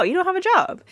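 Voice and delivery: Cliff scoffing. Retold or imitated. Cliff scoffing at Rudy, mock high disbelief. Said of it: "Cliff was like".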